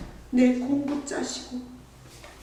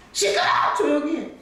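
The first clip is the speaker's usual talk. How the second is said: neighbor's yell; 2 semitones higher, 3 dB louder than usual. Retold or imitated. Pastor imitating neighbor yelling at dawn prayers, mock angry shout. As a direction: snap it like an annoyed neighbor at dawn. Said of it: "창문 두드리고 있어".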